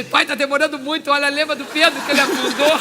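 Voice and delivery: calling out loudly to the Father, pressing him; loud impatient plea upward. Retold or imitated.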